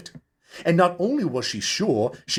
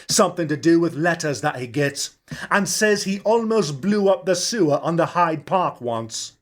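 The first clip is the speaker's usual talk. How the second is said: a hint of a chatty publican with authority; Charlie the barman; 5 semitones higher than usual. Charlie voiced, gossiping.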